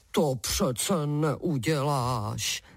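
very slow, low begging plea; a hint of a bound giant begging for mercy; pleading giant. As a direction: beg slowly, dragging each word. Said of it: "zaprosil obr".

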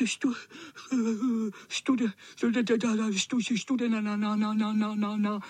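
koktavě, třesoucím se hlasem zimou; drkotání zubů. Acted. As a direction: drkotat zuby při každé slabice. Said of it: "Drkotal zuby". (promočený kocour se klepe zimou)

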